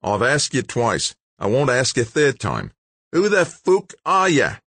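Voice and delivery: rising to a loud, high-pitched growl; growling threat. A narrator's reading. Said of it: "the man growled".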